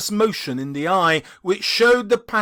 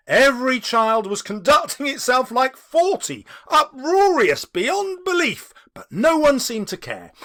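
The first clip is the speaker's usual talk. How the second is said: bright, louder telling of the uproar; lively narration; 7 semitones higher, 6 dB louder than usual. A narrator's reading. Narrator describing the rowdy children, lively. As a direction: let the noise come through.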